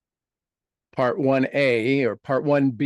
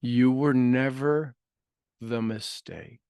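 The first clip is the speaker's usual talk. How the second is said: slow affirmation; slower than usual. Acted. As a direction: let it sink in slowly. Repeated affirmation, slower.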